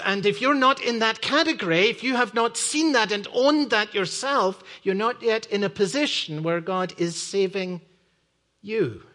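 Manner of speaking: earnest sermon voice; preaching. Acted. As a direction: preach it to the congregation. Preacher in full flow.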